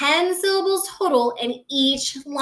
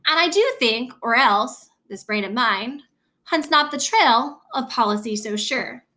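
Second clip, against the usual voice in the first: measured Shakespeare recitation, phrase by phrase; verse reading. Shown as a demonstration. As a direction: read blank verse with a deliberate beat. Reads blank verse example aloud.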